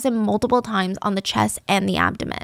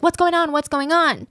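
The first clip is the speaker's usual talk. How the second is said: raised, panicked cry, mildly acted; higher-pitched imitation of a frantic scream; mock screaming; 7 semitones higher than usual. A narrator's reading. Elderly wife hearing the commotion, mock screaming. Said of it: "she just kept screaming".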